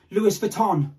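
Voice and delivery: "Louis Vuitton" as loo-iss vuh-ton, slow; garbled brand name. Shown as a demonstration. Showing what it becomes once changed, Louis Vuitton as loo-iss vuh-ton. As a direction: slowly sound the s, then vuh, in "Louis Vuitton". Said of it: "it then gets changed".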